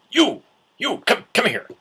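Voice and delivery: loud, high imitated summons; calling out. Booth guy hailing a costumed fan, calling out. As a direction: mimic someone hailing a passerby urgently.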